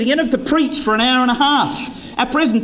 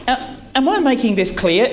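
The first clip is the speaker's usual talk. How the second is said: humble check; 2 semitones higher than usual. Shown as a demonstration. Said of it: "Put the emphasis on you and say".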